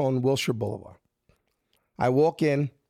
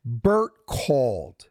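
slow, each word leaned on; slow insistence; 3 semitones lower, much slower than usual. Retold or imitated. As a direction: spell it out like she's missing the obvious. Insisting to casting agent.

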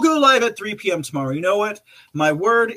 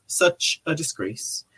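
dropped to a soft, slow echo; host softly echoing the quote; softer echo; 6 dB quieter, slower than usual. Shown as a demonstration. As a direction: let the repeat fall away quietly. Rereading Trump's repeated phrase.

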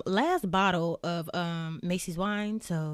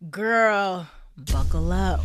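excited; 10 dB louder, slower than usual. Acted. Hyped warning to listeners.

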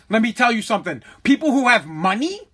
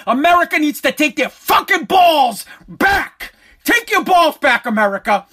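rallying yell; 4 semitones higher, 3 dB louder than usual. Real, not acted. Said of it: "rallying shout".

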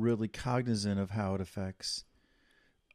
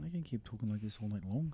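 put-on Scottish accent; 8 dB quieter, faster than usual. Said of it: "you keep going".

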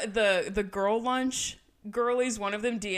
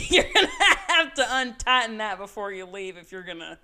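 laughing; 5 dB louder than usual. Real, not acted. Laughing while teasing co-host.

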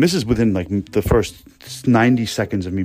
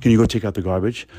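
friendly ask. Retold or imitated. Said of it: "probably something along the lines of".

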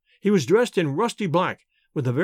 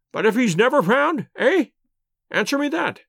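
put-on indignant old lord; 7 semitones higher than usual. A narrator's reading. Lord Mount James sneering at the detective, high indignant. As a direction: scoff at the detective's nerve.

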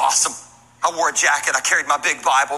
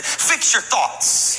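whispered cue; 5 semitones higher, much slower than usual. Shown as a demonstration. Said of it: "Turn to somebody next to you and say".

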